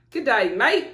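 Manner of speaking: playful Australian greeting with a swooping pitch; Australian accent attempt. Shown as a demonstration. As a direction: have a go at an Aussie accent. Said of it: "to do an Australian accent".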